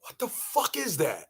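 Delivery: low muttered aside. Acted. Comic repeating the question, low muttered aside. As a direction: drop way down, low and soft.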